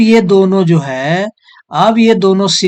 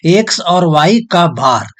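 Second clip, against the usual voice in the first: slow dictation; slower than usual. Shown as a demonstration. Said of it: "तो इसको ऐसे पढ़ते हैं".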